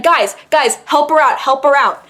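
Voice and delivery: rally bystanders urgently, as a retelling; imitated calling out. Retells man rallying the crowd.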